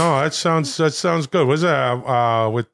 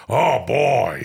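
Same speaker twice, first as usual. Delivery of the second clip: low impression of an impression; Al Pacino doing Robert De Niro; 4 semitones lower than usual. Pacino mimicking his friend Bobby, low mock De Niro. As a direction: drop the voice for a drawn-out actor impression. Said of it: "This is Al Pacino doing".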